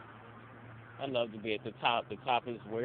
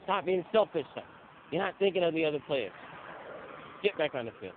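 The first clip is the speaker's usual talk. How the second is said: scolding coach; 5 semitones higher than usual. Retold or imitated. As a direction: imitate the coach lecturing his player. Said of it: "And he's like".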